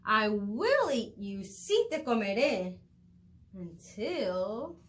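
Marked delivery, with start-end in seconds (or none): 0.1-2.8 shouting. Acted. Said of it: "Teodoro le gritó y le empezó a perseguir".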